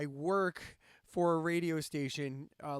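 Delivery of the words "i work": slow, pointed emphasis on "work"; air quotes. Real, not acted. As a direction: WORK drawn out and louder, in quotes. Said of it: "I do that in quotes".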